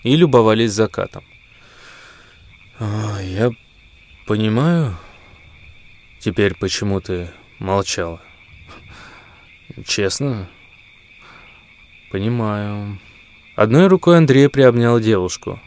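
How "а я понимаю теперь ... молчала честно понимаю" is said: soft and quiet. Acted. Boyfriend quietly accepts.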